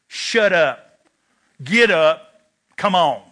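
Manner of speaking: put-on no-nonsense older brother telling him to get up; brother's gruff order. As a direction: bark it at the crying little brother. Big brother ordering crying kid.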